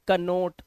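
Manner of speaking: "कनोट" with an audible K; wrong reading of knot. Shown as a demonstration. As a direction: put "क" before "नोट": "कनोट". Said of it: "कनोट नहीं पढ़ना है".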